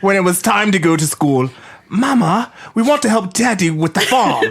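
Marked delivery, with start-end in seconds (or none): 1.9-4.4 mock Irish accent. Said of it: "What is this accent?".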